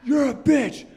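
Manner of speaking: high, slow mocking yell of a meathead; angry yell. Meathead yelling at his girlfriend in public, mock angry yell. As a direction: bark it like a drunk bully.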